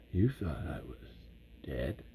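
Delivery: whispered, dropping away on dead; conspiratorial whisper. Retold or imitated. Bert whispers his secret survival to the audience. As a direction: let them in on the secret, hushed. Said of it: "like, Southern for Bert".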